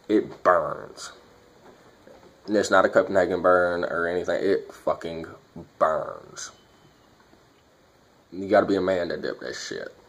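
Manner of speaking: lip full of dip. Real, not acted. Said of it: "let's pack a lip".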